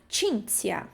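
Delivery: "Cinzia" said CHIN-tsia, falling; Italian ci and zi. Shown as a demonstration. Teacher repeats the CI and ZI rule, careful pronunciation. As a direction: finish "Cinzia" on a clean tsia. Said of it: "C I e Z I de novo".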